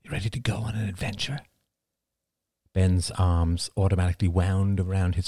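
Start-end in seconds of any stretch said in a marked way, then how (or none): 0.0-1.4 soft and quick, coaxing; father coaxing his sleepy boy awake, soft and quick; soft, eager whisper-like. Acted. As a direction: gently tempt a sleepy child. Father waking son gently.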